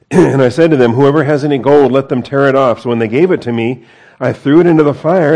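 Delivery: loud, animated mock Aaron making excuses. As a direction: plead a lame excuse, loudly. Acting out Aaron's lame excuse.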